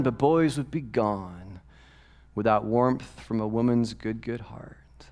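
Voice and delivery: slow, lyrical recitation fading to a whisper; tender poem reading; recited lyrics. Acted. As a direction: read the lyric like a poem, drifting off.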